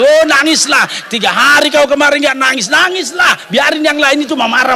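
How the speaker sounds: acted-out fervent father giving in; emphatic urging. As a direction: egg the baby on to keep crying. Father giving in, urging baby cry.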